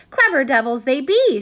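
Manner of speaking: loud, exasperated outburst; shouting. Acted. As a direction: shout it out bitterly. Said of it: "shouted Missus Pepper".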